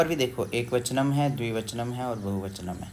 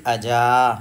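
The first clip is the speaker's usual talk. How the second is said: slow emphatic recitation; 9 dB louder, much slower than usual. Shown as a demonstration. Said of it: "teacher reciting word forms".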